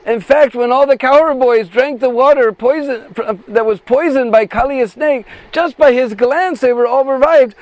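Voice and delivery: a hint of a bright-idea friend; lightly voiced hopeful friend. Friend proposes bringing Nandanandan.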